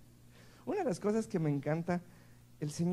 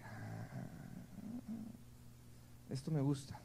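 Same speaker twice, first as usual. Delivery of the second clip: delighted sigh; 12 dB quieter, slower than usual. Retold or imitated. Delighted discovery, breathy.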